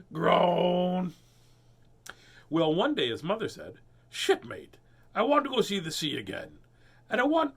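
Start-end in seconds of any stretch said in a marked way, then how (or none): 4.1-7.5 man pirate voice. Acted. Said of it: "I shouldn't say it like a, like a man pirate".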